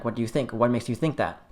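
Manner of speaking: soft, curious, gentle questions; calm, open-ended asking; gentle questioning. Shown as a demonstration. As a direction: ask softly, like water on fire. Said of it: "say it in the most gentlest way possible".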